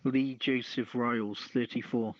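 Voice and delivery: usual speaking voice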